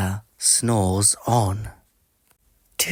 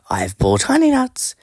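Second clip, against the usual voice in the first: grinning badger; 4 dB louder than usual. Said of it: "Badger says with a grin".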